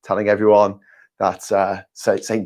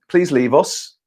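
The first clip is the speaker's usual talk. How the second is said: mock plea; 2 semitones higher, slower than usual. Mock pleading farewell.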